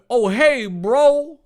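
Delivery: very high, loud, bro greeting; John's high greeting. Acted. John greeting Dave as a friend, high and loud.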